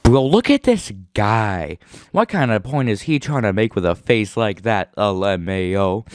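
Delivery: smug mocking bro voice; mean commentator voice. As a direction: sneer like a toxic commentator.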